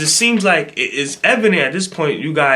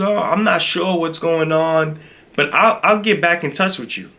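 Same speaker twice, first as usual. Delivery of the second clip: mock confusion; 4 semitones higher than usual. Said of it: "sounding confused".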